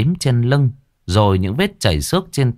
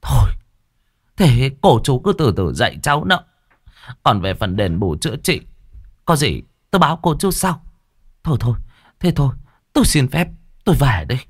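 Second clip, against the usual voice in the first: hasty retreating woman; 5 semitones higher, faster than usual. Acted. Woman hastily backing out.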